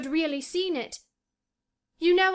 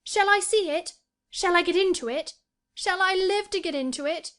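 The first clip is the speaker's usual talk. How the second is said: put-on high, loud, overwrought boy; desperate pleading; 10 semitones higher, 6 dB louder than usual. A narrator's reading. Colin begging Mary about the garden, desperate excitement. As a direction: beg breathlessly to be told yes.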